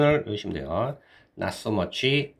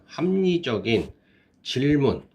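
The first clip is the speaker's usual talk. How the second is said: 합리적인 said slowly, syllable by syllable; slow clear repeat; 5 semitones higher, 4 dB louder, slower than usual. Shown as a demonstration. Teacher repeats 합리적인 slowly for class. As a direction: spell out 합리적인 slowly for students.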